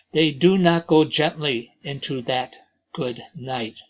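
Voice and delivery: measured, deliberate reading of verse, lines given room; poem recitation. Acted. Teacher reciting a Dylan Thomas poem to the class, poem reading. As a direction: read it as a poem meant to be heard aloud.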